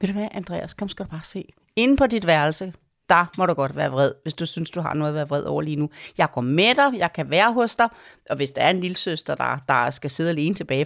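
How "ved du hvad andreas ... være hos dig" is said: a gently calm parent voice; calm mother guiding her son to his room. Shown as a demonstration.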